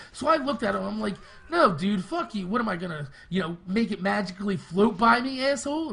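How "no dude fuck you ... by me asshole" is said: angry retort. Retold or imitated. Angry teen yelling at the salesman who mocked him. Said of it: "I literally fucking blew up".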